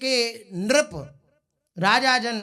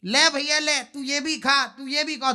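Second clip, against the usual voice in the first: raised, playful host shouting to friends; Krishna loudly pretending to serve his friends, mock generous call; loud offering call; 4 semitones higher than usual. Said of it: "आवाज जोर जोर की लगा में".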